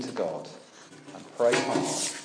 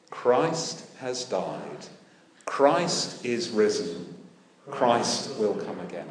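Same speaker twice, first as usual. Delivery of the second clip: slow, measured unison-style recital; slow congregational response; 5 dB louder, slower than usual. Shown as a demonstration. Preacher invites the church to answer, slow recital. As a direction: say it together like a response. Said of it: "Would you be so kind?".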